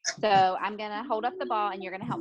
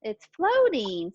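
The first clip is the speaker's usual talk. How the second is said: slow modelled word; 3 dB louder, slower than usual. Shown as a demonstration. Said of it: "Say floating".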